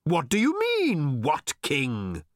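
high projected shout, dropping at the end. A narrator's reading. Old man challenging Arthur's question, shouting. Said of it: "shouted old Thrashbarg".

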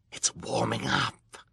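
high, wheezy villain glee; delighted wheeze. A narrator's reading. Villain Olaf watching the lock open, delighted wheeze. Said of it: "said in a delighted wheeze".

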